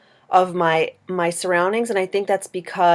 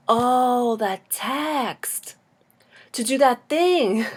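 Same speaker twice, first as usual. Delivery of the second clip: drawn-out, higher-pitched mock realization; acted dawning recognition; 5 semitones higher, much slower than usual. Dreamer answers the dream figure with mock, drawn-out recognition. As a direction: stretch it out as if catching on. Acting out her puzzled dream reply.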